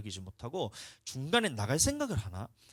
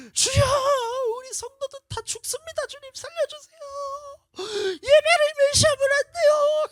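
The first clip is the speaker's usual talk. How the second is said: very high, loud pleading wail; desperate crying out; 14 dB louder than usual. Retold or imitated. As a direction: wail to God begging for the flock. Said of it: "하면서 막 이렇게 부르짖는 거예요". (성도를 위해 아주 높게 울부짖으며 간구)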